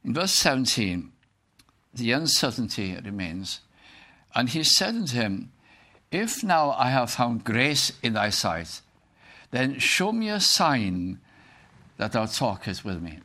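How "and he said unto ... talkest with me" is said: scripture reading. Acted. Reads scripture aloud to the congregation.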